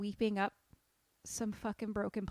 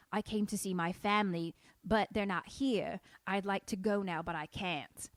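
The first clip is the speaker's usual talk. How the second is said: put-on half-committed Cockney accent. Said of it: "Sometimes your Cockney goes into Southern".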